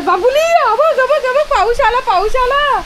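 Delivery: high, loud sing-song call to the pet; excited high call, rain's here. Real, not acted. Owner calls her pet as rain begins, high excited call.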